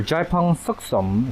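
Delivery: slow, Cantonese-accented plant name; Cantonese-tinged pronunciation, taken slowly. Real, not acted. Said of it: "I say that with a Cantonese accent".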